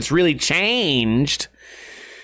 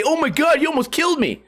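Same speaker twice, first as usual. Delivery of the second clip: higher, hammed-up clickbait panic; mock YouTuber drama; 9 semitones higher than usual. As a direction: parody an overacting vlogger. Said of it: "And then say".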